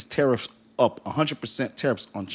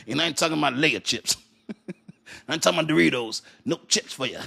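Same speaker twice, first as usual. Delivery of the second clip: laughing aside; 5 semitones higher, faster than usual. Real, not acted. Laughing aside about chips.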